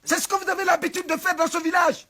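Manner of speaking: very high, loud accusation; outraged shouting. Acted. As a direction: denounce the whole village at full voice. Chief's outrage goes on.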